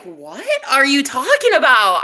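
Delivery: high-pitched disbelieving retort; mock incredulous. Woman replaying her answer to boyfriend, incredulous. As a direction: throw it back in amused disbelief.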